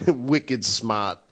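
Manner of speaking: low, light Boston accent, dropped R; amused touch of Boston accent. Shown as a demonstration. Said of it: "like, in a Boston accent".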